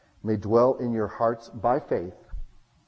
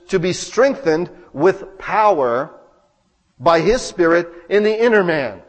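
slow, louder proclaimed phrase; loud preaching; 3 semitones higher, 8 dB louder than usual. Acted. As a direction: drive each word home from the pulpit. Preaching the verse loudly.

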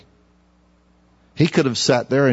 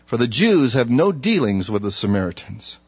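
scripture reading. Acted. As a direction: read the verse with weight. Preacher reads scripture aloud.

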